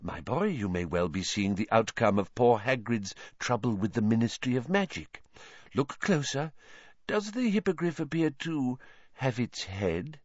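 a hint of a dreamy, eerie seer, coaxing; lightly voiced mystic teacher. Trelawney urging Harry to look closer, lightly voiced seer. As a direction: lean in and lure him to see doom.

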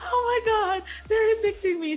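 high, loud panicked cry; retold panic. Retelling the lockout to her friend, high panicked cry. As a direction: blurt it out like the locks just failed you. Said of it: "freaking out".

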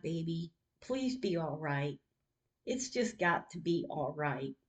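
a mother's tearful plea for her daughter. Retold or imitated. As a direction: plead quietly, close to crying. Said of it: "and I'm crying".

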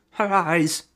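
high, hammed-up moaning of a hurt man; moaning injured man. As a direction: mimic an overacted dying groan. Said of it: "he's moaning and groaning".

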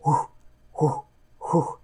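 breathy whoo of igniting flame; whoosh of torches. Acted. Game master voices torches lighting in passing, whooshing.

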